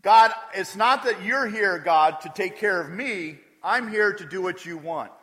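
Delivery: loud, earnest servant's vow to God; voiced prayer. Preacher voicing Solomon's loud, earnest vow to God. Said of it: "what he's saying is".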